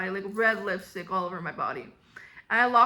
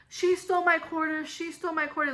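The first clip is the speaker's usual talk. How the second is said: put-on higher-pitched tattling kid; imitated yelling; 5 semitones higher than usual. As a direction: call out an accusation like a tattling kid. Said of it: "Junior starts yelling to Mister Bart".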